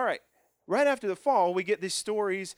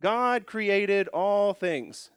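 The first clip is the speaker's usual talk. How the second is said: slow dictation; 3 semitones higher, 3 dB louder, much slower than usual. Shown as a demonstration. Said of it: "I'll just write it sideways".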